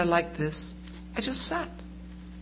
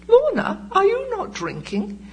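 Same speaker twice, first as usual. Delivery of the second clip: much higher, prim dinner guest asking; high-pitched guest; 12 semitones higher than usual. Retold or imitated. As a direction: mimic the nosy woman across the table, pitched way up. Dinner guest quizzing the speaker.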